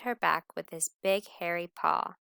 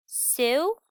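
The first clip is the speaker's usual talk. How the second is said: giggly; 8 semitones higher, 7 dB louder than usual. Acted.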